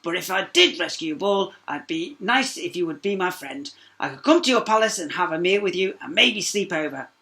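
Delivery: lightly voiced frog. A narrator's reading. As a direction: ask hopefully as the frog. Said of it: "croaked the frog".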